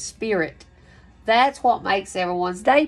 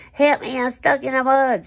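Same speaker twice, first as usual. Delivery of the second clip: hammed-up higher, louder plea; mock cry for help; 5 semitones higher, 5 dB louder than usual. Reader acting out a stuck person for Taurus, mock plea. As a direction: play someone stuck in mud, half joking.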